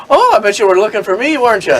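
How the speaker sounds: high, quick teasing voice; sly, sing-song leprechaun taunt; cheeky leprechaun. Retold or imitated. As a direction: tease them from atop the fountain. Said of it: "this leprechaun going".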